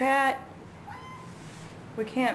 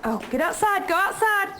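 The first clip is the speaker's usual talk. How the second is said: high, loud urgent shoo; 10 semitones higher, 4 dB louder than usual. Real, not acted. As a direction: shoo the bird out. Shooing bird out door.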